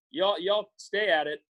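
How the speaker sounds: slow folksy Southern y'all; Southern drawl. Real, not acted. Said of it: "That's my Southern drawl right there".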